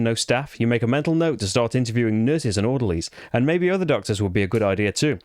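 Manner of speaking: reading the campaign story in a put-on English accent. Player reading the campaign book aloud to viewers, mock English accent. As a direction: narrate it in your best English accent. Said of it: "I'll read it in my best English accent".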